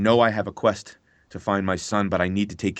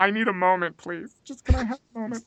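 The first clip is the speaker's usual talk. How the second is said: shaken plea; 11 semitones higher than usual. Retold or imitated. Asking director for a moment.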